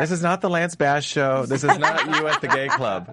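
laughing. Real, not acted. Teasing loud cohost, laughing.

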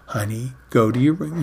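put-on easy, unhurried words to a small child; slow and gentle. Shown as a demonstration. Showing how to talk to a four-year-old, slow and gentle. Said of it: "You go slow it down".

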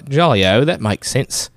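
joking fake English accent; mock English accent, came out Australian. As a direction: toss it off like a cartoon Brit gone Aussie. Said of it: "That was Australian".

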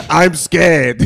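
put-on laughing parody of a scared girl; mock the voice through laughter. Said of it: "when you do the voice".

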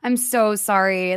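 slow, drawn-out mock apology; mock apologetic. Guys breaking up with her, mocked as slowly sorry. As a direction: stretch it out in imitated remorse.

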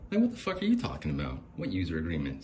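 furious disbelief at the user agreement; incredulous outrage. Real, not acted. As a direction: demand an answer in shock.

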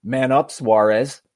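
slow, lightly voiced taunt from the bar; a hint of a mocking heckler; heckler's jeer. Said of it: "all I can hear is the voice".

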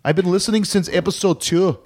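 Irish brogue drifting toward Scottish; put-on Irish accent. Host reading listener Seamus's email, put-on Irish accent. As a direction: read it out in a hammy Irish lilt. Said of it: "sort of going towards Scottish there".

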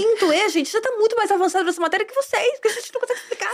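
high, hammed-up teacher's scolding; teacher comparing classes. Voicing a teacher comparing rival classes.

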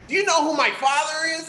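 put-on high-pitched indignant privileged kid; entitled white guy. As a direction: pull rank on the cop, pitched right up. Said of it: "if dude turns into white dude".

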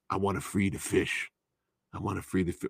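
lightly voiced quiet Mickey Rourke; a hint of a dreamy Mickey Rourke. Motorcycle Boy telling his brother he wants to free the fish, lightly voiced. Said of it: "that's my Mickey Rourke voice now".

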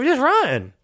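high squeaky urge to flee; mock urgent. Player telling herself to flee, high and urgent. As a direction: squeak it out like panic.

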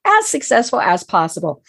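squeaky voice from a cold. Real, not acted. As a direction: talk through a squeaky, cold-worn voice. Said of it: "please excuse my squeaky little voice".

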